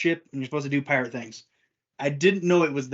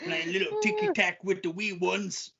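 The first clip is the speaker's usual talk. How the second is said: mock British; 4 semitones higher, 5 dB quieter than usual. Mock British parent talk.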